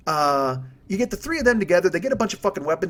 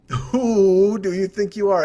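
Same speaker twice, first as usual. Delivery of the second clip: slow, drawn-out Who like a hooting owl; comic owl-style hooting question; 4 dB louder, much slower than usual. Acted. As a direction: stretch the words into an owl call. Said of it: "what an owl says".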